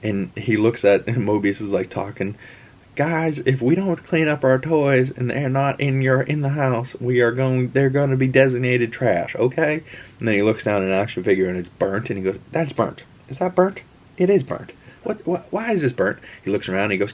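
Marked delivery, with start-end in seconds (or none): 2.9-9.8 raised, higher scolding-dad voice; dad scolding kids. Retold or imitated. Dad warning his boys to clean up, higher scolding. 12.5-16.2 climbing higher in disbelief; shocked dad. Retold or imitated. Dad finding his son's burnt toy, much higher disbelief.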